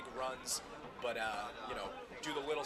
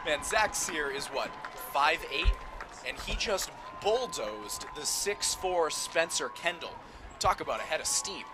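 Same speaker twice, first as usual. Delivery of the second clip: excited; 3 semitones higher, 6 dB louder, slower than usual. Real, not acted. Co-host reacts to touchdown.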